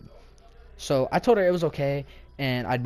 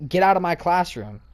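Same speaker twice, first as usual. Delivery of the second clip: louder, higher imitation of an angry teacher; stern order; 4 semitones higher, 6 dB louder than usual. Teacher kicking a student out of class, stern. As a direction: order someone out, firm and raised.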